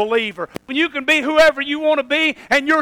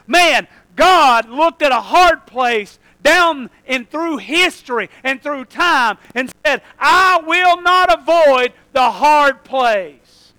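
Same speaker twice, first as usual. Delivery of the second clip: fiery preaching; slower than usual. Acted. Preacher declaring to his congregation, fiery. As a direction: drive each word home from the pulpit. Preacher rising to full force.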